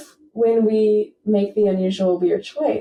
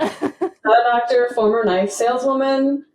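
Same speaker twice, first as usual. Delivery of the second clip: laughing; 4 semitones higher than usual. Real, not acted. Repeating joke while laughing.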